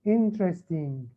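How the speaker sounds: "Interesting" slowed, each syllable measured out. Shown as a demonstration. Teacher showing how it is read, slow and measured. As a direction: say "Interesting" slowly so the beats can be counted. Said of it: "شوف شلون عم بقرأها ها".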